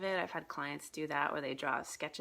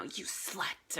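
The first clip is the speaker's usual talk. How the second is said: mock hissed insult; 5 dB quieter than usual. Acting costume characters' insults.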